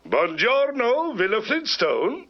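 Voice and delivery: Italian lover answering the phone; crooning Italian greeting; purring latin lover. Acted. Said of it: "Latin lover".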